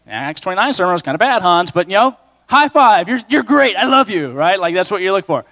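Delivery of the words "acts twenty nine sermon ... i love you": brighter and louder from "high five" on; pep a friend up after a weak sermon; cheery encouragement. Retold or imitated. God cheers the preacher after his sermon, cheery and upbeat. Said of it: "he's like".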